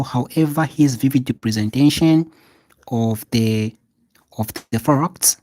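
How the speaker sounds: loud, deliberate read of the model sentence; emphatic classroom read-aloud; loud dictation. Shown as a demonstration. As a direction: call it out so the back row writes it down. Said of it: "This is how you're going to present it".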